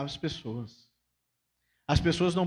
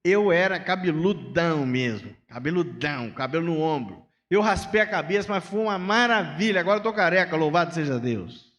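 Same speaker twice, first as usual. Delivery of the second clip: cheerful bald friend; 4 dB louder than usual. Retold or imitated. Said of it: "O Carlos vira pra mim e fala assim".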